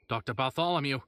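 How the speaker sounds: loud alarmed cry of a name; mayor crying out to the doctor in alarm, loud; loud call. Acted. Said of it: "the mayor said loudly".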